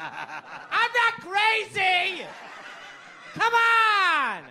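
high loud strained half-yell; whisper yelling. Retold or imitated. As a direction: shout it under your breath. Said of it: "Why are you whispering?".

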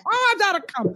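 high moaning cry; hammed-up climax wail; mock orgasm moan. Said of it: "this is how the person ... is going".

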